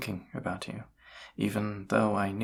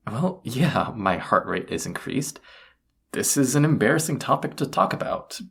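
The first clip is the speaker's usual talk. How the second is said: rattled, higher and louder, defensive; flustered denial; 3 semitones higher, 5 dB louder than usual. Acted. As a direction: protest as if caught with a secret. Caught out, denying a crush.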